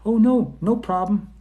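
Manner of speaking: high, loud, overly chirpy waiter; mock waiter. Restaurant waiter answering a solo diner, high chirpy mock. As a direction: play the eager waiter brushing it off.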